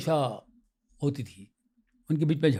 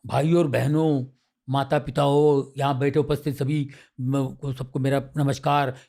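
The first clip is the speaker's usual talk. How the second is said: formal stage greeting; 3 semitones lower than usual. Shown as a demonstration. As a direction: greet the audience like a memorised stage speech. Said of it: "ये मैंने रट रट के".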